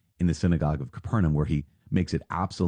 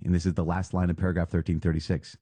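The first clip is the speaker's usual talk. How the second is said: normal talking voice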